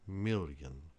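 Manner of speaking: million with a clear ly, MIL-yun; English ll as ly; ly sound. Shown as a demonstration. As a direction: say million stressing the ly. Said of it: "similar to the double L in million".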